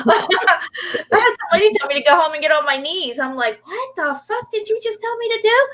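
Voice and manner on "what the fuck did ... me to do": high, shocked outrage; outraged. Retold or imitated. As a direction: demand what she said.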